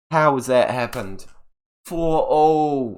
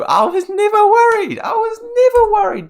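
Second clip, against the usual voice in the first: high, falsetto mock nonchalance; mock denial; 7 dB louder than usual. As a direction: squeak it like you never cared. Mocking after signing the player.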